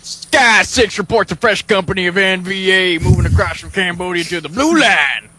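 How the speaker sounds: brief the platoon like a football coach; southern captain voice. Acted. S0 plays Captain Harris, southern coach.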